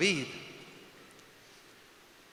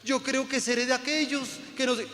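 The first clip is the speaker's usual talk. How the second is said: lightly voiced smug believer, pitched higher; mocking the believers; 6 semitones higher than usual. Preacher mimicking believers who keep borrowing, mock pious. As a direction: parrot the complacent believer. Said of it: "entonces la gente es".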